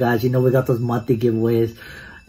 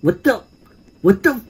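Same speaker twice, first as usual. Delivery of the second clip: startled high squeak; 10 semitones higher than usual. Real, not acted. Sudden shock in game.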